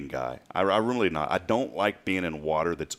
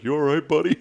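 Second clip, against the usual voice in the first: high, loud mock concern; imitating amused officer; 8 semitones higher, 5 dB louder than usual. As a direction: play the rescuer checking on a big baby. Acts out amused rescuing officer.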